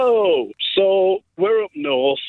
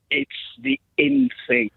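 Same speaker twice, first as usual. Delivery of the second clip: higher-pitched lightly put-on lad; son's reply; 9 semitones higher than usual. Twelve-year-old answering his dad, lightly imitated. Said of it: "it says".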